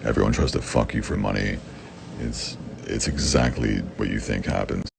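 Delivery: ordinary talk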